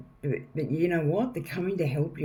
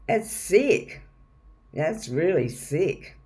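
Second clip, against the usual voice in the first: higher-pitched, emphatic disgust; appalled disbelief; 4 semitones higher than usual. Real, not acted. Appalled by dark web torture.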